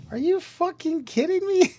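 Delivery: high, loud incredulous squeal; mock outraged disbelief. Coworker mocking a cheap tool, loud and high-pitched.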